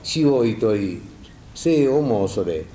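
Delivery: slow, measured verse reading; poem recitation. Acted. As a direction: read each line slowly like a poem. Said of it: "これは最近私が読んだのなんですがね".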